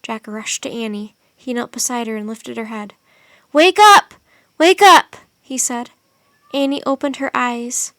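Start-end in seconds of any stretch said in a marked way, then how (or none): 3.5-5.1 high, loud urgent call. A narrator's reading. Jack begging Annie to wake in the snow, loud and urgent. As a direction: shake her awake with your voice.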